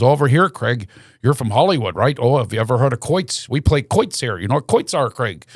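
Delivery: put-on local guy's Shamokin Pennsylvania accent; lightly put-on small-town Pennsylvania accent. Tour guide greets the visitor from Hollywood, Shamokin Pennsylvania accent. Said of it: "with that Shamokin, Pennsylvania accent".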